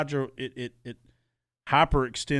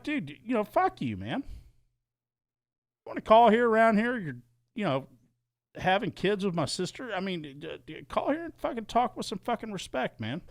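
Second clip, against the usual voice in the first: retold yell; 9 semitones higher than usual. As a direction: bellow it at him down the phone. Yelling at caller, retold.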